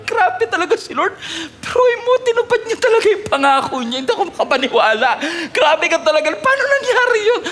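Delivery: high, laughing, breathless wonder; amazed laughter. Retold or imitated. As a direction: laugh in amazed delight at the miracle. Sarah amazed by the promise. (tawang namamangha)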